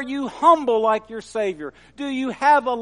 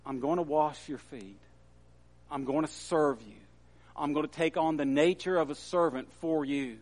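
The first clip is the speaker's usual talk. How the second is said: lightly voiced teacher, low and soft, building to firm insistence; solemn instruction growing more insistent; Jesus; 5 semitones lower, 5 dB quieter than usual. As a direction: start low and quiet, rise gradually into an earnest warning. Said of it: "Jesus says to Peter".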